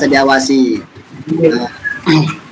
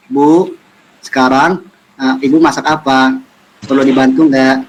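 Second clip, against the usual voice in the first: gentle, unhurried polite asking; soft-spoken to mother. Shown as a demonstration. Child offering mother help, soft-spoken. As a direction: ask mum politely, pausing between phrases. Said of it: "Gitu, pelan-pelan".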